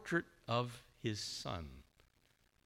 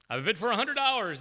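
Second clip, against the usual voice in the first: fast, loud, high auction patter; auctioneer patter; 10 semitones higher, 8 dB louder, much faster than usual. Retold or imitated. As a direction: rattle off the bid like an auctioneer. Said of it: "the auctioneer said".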